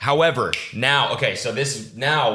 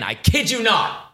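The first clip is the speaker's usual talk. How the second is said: emphatic disbelief; 13 semitones higher, slower than usual. Real, not acted. Emphatic outrage.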